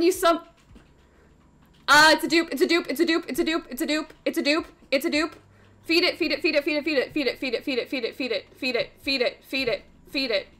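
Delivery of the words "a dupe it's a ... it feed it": rapid repeating. Real, not acted. Rattling through duplicate summons.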